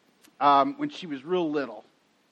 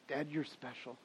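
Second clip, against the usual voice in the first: little daughter copying; 3 semitones lower, 14 dB quieter than usual. Retold or imitated. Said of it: "She'd go".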